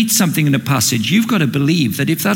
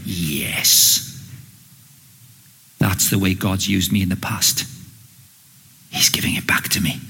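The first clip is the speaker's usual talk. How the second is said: hushed hopeful musing; 6 semitones lower than usual. Acted. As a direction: half-whisper remembering past glory. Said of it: "And Elijah's going".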